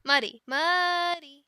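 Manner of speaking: loud, fed-up plea to a pet; exasperated scolding. Acted. Handler to an overgrown baby dragon, exasperated scolding. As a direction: raise your voice to get a youngster's attention.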